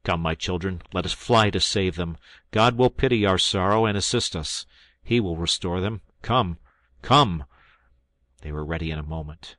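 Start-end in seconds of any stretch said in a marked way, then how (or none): 0.0-7.4 rallying call. Acted. Father rallying sons to rescue.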